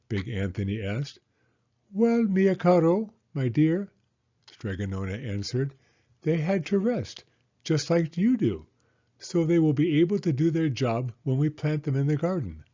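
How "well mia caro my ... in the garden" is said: a hint of a higher, kindly grandmother voice; lightly voiced old Italian woman. Stregonona answering Big Anthony's question, lightly higher. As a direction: gently explain like a patient old nonna.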